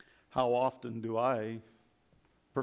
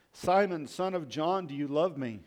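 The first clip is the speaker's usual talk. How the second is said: pleading; 4 semitones higher, 4 dB louder than usual. Acted. Jesus asks a third time.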